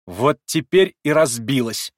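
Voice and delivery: slow, loud, challenging triumph; defiant triumph. A narrator's reading. Girl after smashing the cup, defiant triumphant cry. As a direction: savour the challenge. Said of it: "с каким-то вызывающим торжеством".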